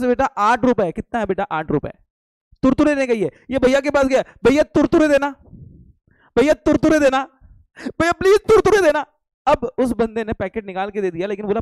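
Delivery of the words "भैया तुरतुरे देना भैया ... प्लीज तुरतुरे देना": put-on higher, louder little girl begging the shopkeeper; pleading girl. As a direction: beg sweetly like a small child. Teacher voices girl begging shopkeeper. (छोटी बच्ची की तरह ऊँची आवाज़ में विनती)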